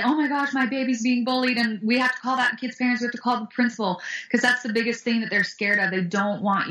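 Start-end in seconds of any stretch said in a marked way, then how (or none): 0.0-4.0 acted parental panic, raised in pitch; freaking-out parent. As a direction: overreact like an alarmed parent, mildly hammed-up. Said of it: "You cannot get crazy and say".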